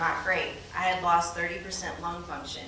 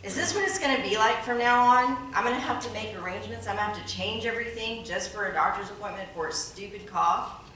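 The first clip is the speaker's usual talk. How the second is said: upset; 2 semitones higher than usual. Retold or imitated. Patient phones her husband about the appointment, upset. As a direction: complain in disbelief, as if upset. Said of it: "I called my husband so upset that day".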